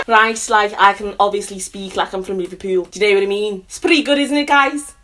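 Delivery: playful Scouse accent demo; Liverpool accent. Shown as a demonstration. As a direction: show off a Liverpool accent for the viewers. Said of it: "Can you do a northern accent?".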